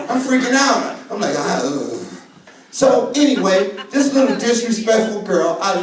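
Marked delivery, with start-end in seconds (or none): 1.4-1.9 low groan of embarrassment; mock dismayed groan. Comedian mortified by his niece in church, mock groan.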